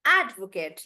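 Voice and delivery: "advocate" with AD stretched; "advocate" front-heavy on AD; stress on AD. Shown as a demonstration. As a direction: make AD the biggest part of "advocate". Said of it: "I'm making that bigger".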